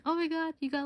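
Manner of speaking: high, excited oh my God; excited gasp. Retold or imitated. Friends amazed at her bag, high and excited. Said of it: "they were just like".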